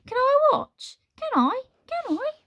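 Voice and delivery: squeaky, very high pleading; excited begging. Acted. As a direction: beg like an eager child. Candle begging eagerly.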